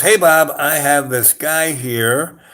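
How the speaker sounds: retold businesslike call-out; imitating phone hail. Acted phone call to Bob.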